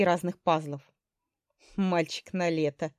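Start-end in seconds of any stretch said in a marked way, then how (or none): 1.8-2.9 unhappy. Acted. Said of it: "Голос у него был несчастный".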